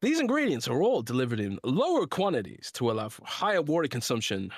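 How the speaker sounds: lilting, emphatic sponsor read. Acted. Podcast host reading the sponsor's drink ad, emphatic ad read. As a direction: sell it with swooping stress on key words.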